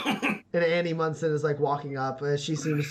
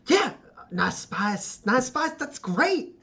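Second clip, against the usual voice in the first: slow, breathy mumble rising to a high finish; dreamy old father; 9 semitones higher, slower than usual. Acted. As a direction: savour the words like a pleased old man. Father repeats tagline dreamily.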